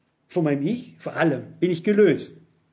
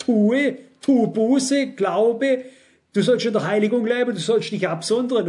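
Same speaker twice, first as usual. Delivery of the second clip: commanding God; 4 semitones higher, 3 dB louder than usual. Acted. Quoting God's commands in sermon.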